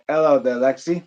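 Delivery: amateur British greeting; crappy British accent. Shown as a demonstration. Streamer greeting Lexi on the live stream, crappy British accent. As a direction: try a rough British hello. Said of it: "probably a really crappy British accent".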